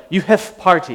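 lightly put-on Eastern European accent; terrible Eastern European accent. Imitating the bonsai grower's Eastern European accent. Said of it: "It was a terrible accent".

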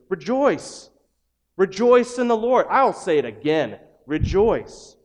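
loud, high, ringing call to rejoice; joyful proclamation. Shown as a demonstration. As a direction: shout it out like good news. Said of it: "And yet you read in Scripture this".

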